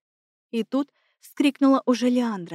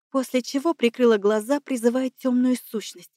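usual speaking voice

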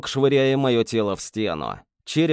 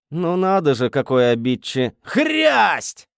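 surprised; 4 semitones higher, 4 dB louder than usual. Acted. Hero cut off by blow.

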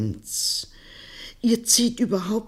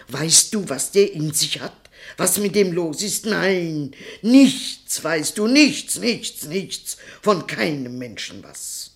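louder and higher, building to a cry; rising outburst; 4 semitones higher, 4 dB louder than usual. Acted. Grandmother rounds on her son, rising to an angry cry. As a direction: hurl the nichts at him, higher each time.

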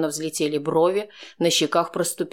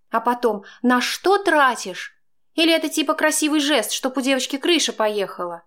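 higher, louder woman's voice, indignant; Chaika, indignant in a quarrel; arguing woman; 10 semitones higher, 3 dB louder than usual. A narrator's reading. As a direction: fire back at him. Woman argues about money.

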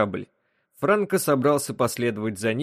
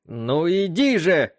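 slow, raised, impatient call; irritated shout; 6 semitones higher, 4 dB louder, slower than usual. Acted. John snaps at the reluctant wub to come in, irritated shout. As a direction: drag the words out in irritation. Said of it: "раздражённо прикрикнул Джон".

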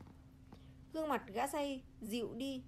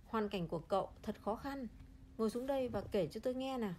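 comforting. Acted. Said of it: "ông cụ an ủi".

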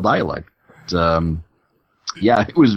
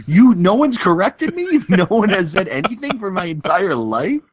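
disbelief; 9 semitones higher than usual. Retold or imitated. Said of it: "And I'm like".

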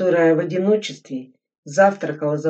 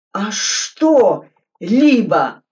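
loud, high, slow retort; shouting back; 5 semitones higher, 8 dB louder, much slower than usual. Acted. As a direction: shout the question back hard. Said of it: "тоже закричал Суслин".

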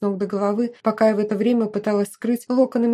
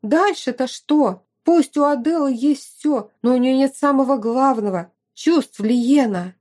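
higher, emphatic argument; lightly voiced insistent friend; 4 semitones higher, 4 dB louder than usual. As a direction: argue back with lifted voice. Narrator voices arguing friend.

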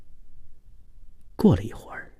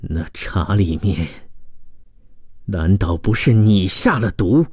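lightly voiced betrayed man. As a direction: confront her with restrained suspicion. (男子低沉地质问)

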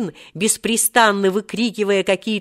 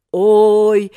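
put-on quavering old man; 2 semitones higher, 7 dB louder than usual. A narrator's reading. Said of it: "захрипел ... дребезжащим стариковским голосом".

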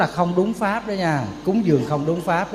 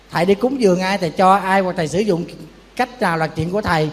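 ordinary talk, nothing marked

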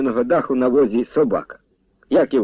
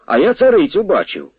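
boasting; 7 semitones higher, 4 dB louder than usual. A narrator's reading. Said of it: "похвалився Кузьма".

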